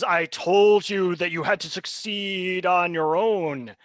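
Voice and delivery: slow, gloating villain voice; menacing villain. Acted. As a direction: savour each word like a cruel host.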